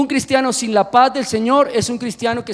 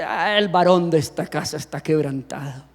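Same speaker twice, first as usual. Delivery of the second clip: mock broken man; 8 semitones lower, 5 dB quieter than usual. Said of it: "eso suena que".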